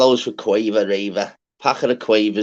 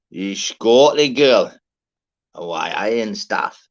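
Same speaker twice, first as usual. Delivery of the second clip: slow, louder, badly faked Scottish accent; terrible Scottish accent; 5 dB louder, slower than usual. Shouting out a Scottish girl in a bad Scottish accent. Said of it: "Terrible Scottish accent".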